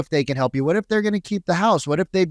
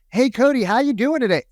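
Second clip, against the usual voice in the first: higher-pitched mock sales greeting; random salesperson; 7 semitones higher than usual. Random salesperson cold-calling Cody, mock sales voice. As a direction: imitate an over-familiar cold caller. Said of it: "random salesperson, which we get five to eight calls".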